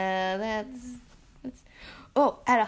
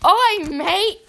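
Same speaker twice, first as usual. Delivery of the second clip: hammed-up British accent, higher; Hermione Granger; 5 semitones higher, 4 dB louder than usual. Shown as a demonstration. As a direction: stretch out a mock British greeting. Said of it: "Think of Hermione Granger".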